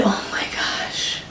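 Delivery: breathy awed whisper, slowed right down. Real, not acted. Fan gushing over a sad TV episode, whispered. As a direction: hush it like it still hurts.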